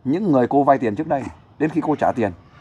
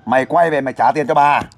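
firm demand at a moderately raised volume; demonstrated loud demand. Shown as a demonstration. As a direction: model a stern call to come back. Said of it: "cô nói lớn tiếng lên". (đòi nợ dõng dạc, làm mẫu)

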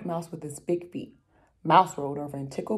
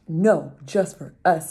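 louder, slower group no; firm refusal; 6 dB louder, slower than usual. Acted. The animals refuse fox, louder and slow. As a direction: shut the fox out.

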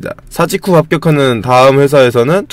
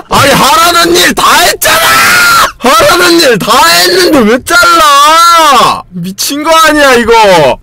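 outraged shout; 11 semitones higher, slower than usual. Real, not acted. Intern fired after doing all his work, outraged shout. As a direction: rage at being fired unfairly.

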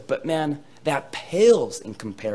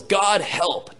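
desperate plea; 7 semitones higher, 5 dB louder than usual. Shown as a demonstration. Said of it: "No, his prayer was".

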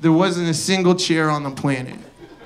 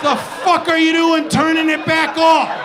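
exasperated shouting; 8 semitones higher than usual. Acted. Ranting at the market people.

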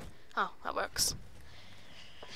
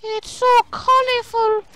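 slow, stretched-out marvelling, rising higher and louder; exaggerated wonder; 4 semitones higher, 4 dB louder, slower than usual. Real, not acted. Gamer marvelling at something colorful, exaggerated wonder. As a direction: stretch the words in big wonder.

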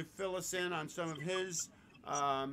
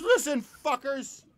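loud, slow, higher menacing wolf voice; big bad wolf; 9 semitones higher, 12 dB louder, slower than usual. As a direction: bellow it like a cartoon villain wolf. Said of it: "And he says".

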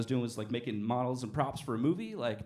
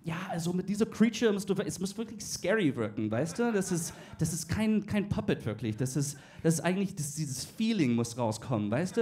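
German boss Denglisch. Retold or imitated. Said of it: "my boss would come over to me and he's like".

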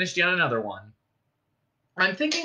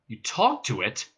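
exclaiming. Acted. Ford reacts to Marvin's confession, incredulous exclamation. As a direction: lean on "talked" in disbelief. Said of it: "exclaimed Ford".

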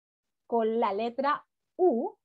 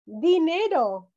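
"dinero" drawn out slowly, a bit louder; careful teaching word; slow example word; 4 semitones higher, 5 dB louder, much slower than usual. Shown as a demonstration. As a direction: say "dinero" slow so kids catch the r. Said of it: "Como por ejemplo".

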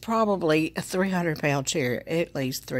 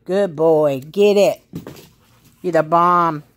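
dog commands; 3 semitones higher, 9 dB louder than usual. Real, not acted. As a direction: coax the dog into sitting, pitched up. Praising the dog.

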